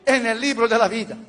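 measured, solemn repeat-after-me prayer; leading a prayer. Acted. Pastor leading new converts through the sinner's prayer, solemn and measured.

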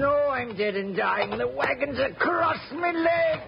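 crying out in pain under a wagon. Acted. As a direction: wail about the pinned leg.

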